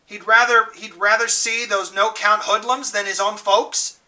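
angry mother. Acted. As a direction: demand your rights, offended. Johnny's mother complaining angrily.

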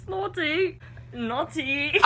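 lightly put-on British pronunciation; British accent. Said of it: "say that with a British accent".

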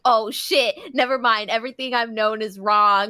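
mock-dramatic dawning horror, stretched words; stunned realization. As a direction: act out a hammed-up love epiphany. Acting out a character's shocked realization.

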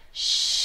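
popping balloon shush; a long loud shush. Shown as a demonstration. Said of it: "make this noise".

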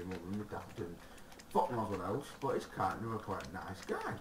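lightly voiced naive creeper; nerdy creeper voice. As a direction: play it dopey and trusting. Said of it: "nerdiness voice sort of thing there".

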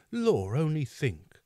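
high, slow fluttery housekeeper; fawning landlady voice, drawn out; Mrs Mann voice. Acted.

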